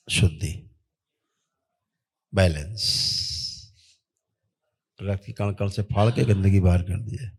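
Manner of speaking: steady, level ritual decree; ritual incantation. Real, not acted. Healer commanding spirits on a patient's behalf, intoned ritual. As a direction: intone evenly like a healing command.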